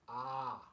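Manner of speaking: "ah" held as one open vowel; Korean A sound. Shown as a demonstration. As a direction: model a long, open "ah". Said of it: "This is the A".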